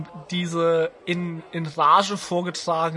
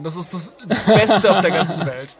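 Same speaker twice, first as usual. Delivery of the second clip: laughing; 4 dB louder than usual. Real, not acted. Gushing about mascot fights.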